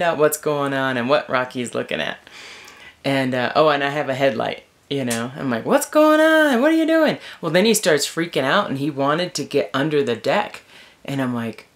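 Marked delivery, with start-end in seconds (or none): 5.7-7.2 very high, raised-voice questions; retold alarmed questioning. Camper calling to her dog in the dark, retold alarm. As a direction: mimic yourself fretting at the dog, pitched way up.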